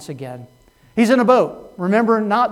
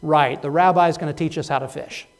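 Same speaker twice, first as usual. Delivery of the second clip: mildly mocking disbelief; eye-rolling sarcasm; 2 semitones lower than usual. Peter doubting the rabbi's fishing advice, mildly sarcastic. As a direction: say it with an audible eye roll. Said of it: "if you could hear eyes roll".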